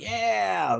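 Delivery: drawn-out, high-pitched mock whoop; mock excited cheer. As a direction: imitate an over-hyped family cheering. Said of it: "their energy for the situation ... seemed a bit off".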